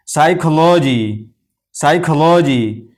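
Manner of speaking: साइकोलॉजी slowly, starting on the S; silent P. Shown as a demonstration. Teacher models psychology for learners, साइकोलॉजी with silent P. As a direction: stretch out साइकोलॉजी with no P sound. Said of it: "ये पी भी silent है".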